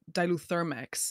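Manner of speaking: diluthermex drawn out, weight on THER; stress on THER. Shown as a demonstration. Actor showing the stress she wanted, stress on THER. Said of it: "wanted so badly for the stress".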